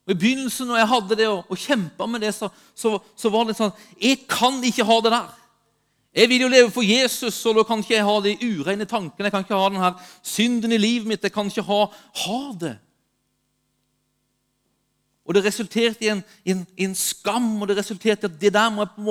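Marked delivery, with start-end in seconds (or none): 4.0-12.8 acted-out inner protest, louder and pressing; insistent self-talk. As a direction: insist to yourself, mildly dramatized. Acts out earlier striving self-talk.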